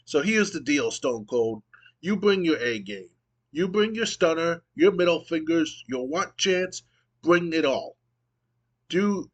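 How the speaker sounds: a touch of boastful promo swagger; The Rock promo. Retold or imitated. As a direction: lightly imitate a cocky wrestler laying down the deal. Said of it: "He goes".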